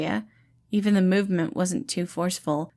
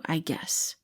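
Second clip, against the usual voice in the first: whispering; 2 semitones lower, 6 dB quieter than usual. Acted. Janice wary reply.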